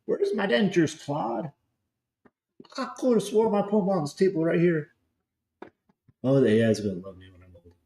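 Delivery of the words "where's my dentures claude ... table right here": put-on old man voice. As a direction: play a doddering old man hunting his dentures. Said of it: "That's gonna be me in twenty years".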